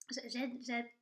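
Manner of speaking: throat catching, halting restarts; talking past a tickle in the throat; frog in throat. Real, not acted. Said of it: "j'ai un truc dans la gorge".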